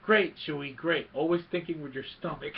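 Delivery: loud, sardonic scolding in a retold quote; mock exasperation. Han to Chewie after the net trap, mock exasperated. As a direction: lightly imitate a fed-up friend telling someone off. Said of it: "one of the funniest lines".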